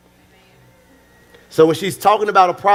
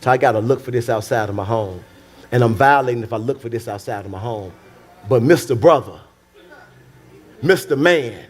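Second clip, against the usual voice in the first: mild wife voice. Acted. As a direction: lightly voice the frustrated wife. Voicing frustrated wife again.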